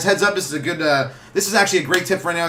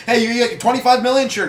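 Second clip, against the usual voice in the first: mock breezy; 8 semitones higher, 5 dB louder than usual. Voicing Xerox paying fine.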